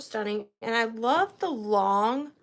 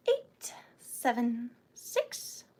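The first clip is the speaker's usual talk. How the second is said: hushed, breathy-soft count; playful whispered countdown; 4 dB quieter, slower than usual. Pretend. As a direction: drop to a whisper for suspense.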